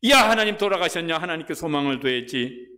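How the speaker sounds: loud, high-pitched scolding of oneself; acted rousing reproach, pitched high; self-rebuke. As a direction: shake yourself out of despair, loudly. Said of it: "자기가 자기한테 뭐라고 말하냐면요".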